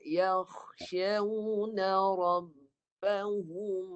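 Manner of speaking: "يَخْشَوْنَ رَبَّهُمْ" with a thick kha and the mouth wide; recitation demo. Shown as a demonstration. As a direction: model reading for the pupil. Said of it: "mulut lebar".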